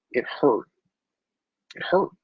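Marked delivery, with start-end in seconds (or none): 1.8-2.1 fighting back tears on the repeat; voice breaking. Real, not acted. Holding back tears remembering losing their home, voice cracking. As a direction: pitch cracks upward on hurt. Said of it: "I told myself I wasn't gonna cry".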